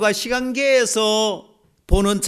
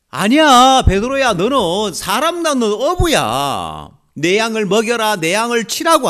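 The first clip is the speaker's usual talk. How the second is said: voicing Jesus; 4 semitones higher, 4 dB louder than usual. Jesus restores Peter.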